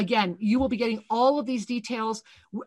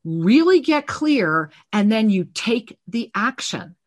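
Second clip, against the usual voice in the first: fervent preaching. Acted. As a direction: drive it home to the listeners. Preaching on clarity.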